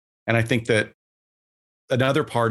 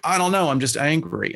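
frustrated client; 5 semitones higher than usual. Retold or imitated. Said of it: "They're like".

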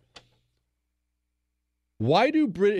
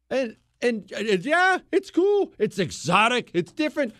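mock excited young Marine; 8 semitones higher than usual. Host mocking Marines gushing over exotic women, excited. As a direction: ham up a starry-eyed young Marine. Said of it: "You feel like".

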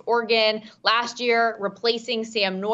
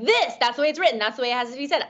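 lightly voiced pompous anchorman; Ron Burgundy; 3 semitones higher, much faster than usual. Co-host teasing the host's ad read, mock anchorman. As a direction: mimic an over-literal ad read, lightly. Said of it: "it was giving Ron Burgundy vibes".

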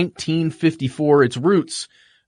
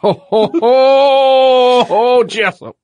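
high, loud hammed-up Southern exclamation; playful mixed-up accent, raised and louder; mock mixed accent; 12 semitones higher, 7 dB louder, much slower than usual. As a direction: overdo a muddled drawl. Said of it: "mixing up some accents there".

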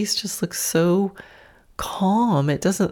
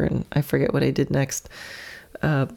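ordinary talk

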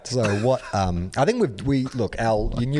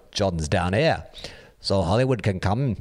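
terrible Liverpool band accent. Shown as a demonstration. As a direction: attempt a bad Liverpool accent. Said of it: "in a terrible band accent".

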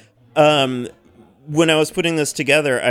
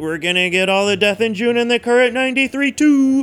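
gleeful ordering spree, pitch climbing higher; excited; 5 semitones higher than usual. Retold or imitated. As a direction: rattle off the wish list, rising with glee. Acts out own excited ordering.

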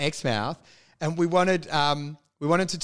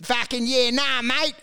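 higher, hammed-up Aussie slang; drunk larrikin; 5 semitones higher than usual. Wacker drinking and led astray, hammed-up larrikin. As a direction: play the corrupted larrikin. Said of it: "stubbing cigarettes out on shit going like".

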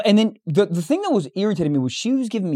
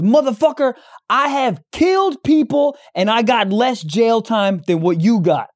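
higher, slow imitation of a man yelling into his phone; mock phone yell; 5 semitones higher, slower than usual. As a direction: ham up the shuttle driver screaming at someone. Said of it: "On the phone with somebody screaming".

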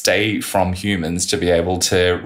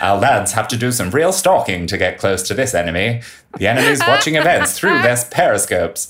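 newsreel narrator; 4 semitones higher than usual. Retold or imitated. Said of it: "the narrator's saying things like".

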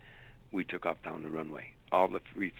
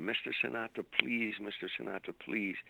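mild mock scream, pitched higher; retold pleading scream; 3 semitones higher than usual. Woman calling to Sinatra from a doorway, mock pleading scream. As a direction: imitate her urgent plea without real volume. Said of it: "and she screamed".

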